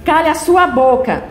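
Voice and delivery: angry yelling. Acted. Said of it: "ela o interrompe gritando".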